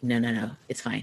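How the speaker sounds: low, soft, playing it down; retold low-key reassurance; mild reassurance. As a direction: quietly wave the worry away, imitating an uncle.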